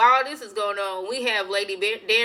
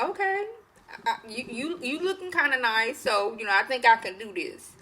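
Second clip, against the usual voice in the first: higher, coy and flustered voice; coy bride; 3 semitones higher than usual. Retold or imitated. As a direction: stumble shyly into liking him. Bride warming to the king.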